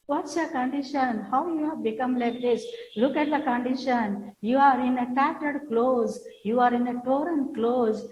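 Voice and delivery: lightly acted dismay at his state; mild reproach. Father's friend reproaches the ragged son.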